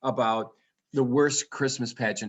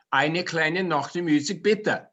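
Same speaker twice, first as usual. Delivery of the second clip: put-on German accent; 2 semitones higher than usual. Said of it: "do you hear all those different intonations".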